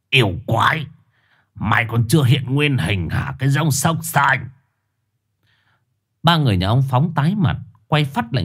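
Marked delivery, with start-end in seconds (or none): 0.1-4.5 accusing shout. Acted. Shaman accuses the dog.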